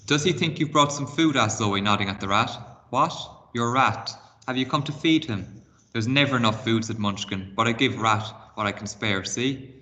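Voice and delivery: expressive read-aloud storytelling; reading a chapter book aloud to pupils; story narration. A narrator's reading. Teacher reads story aloud.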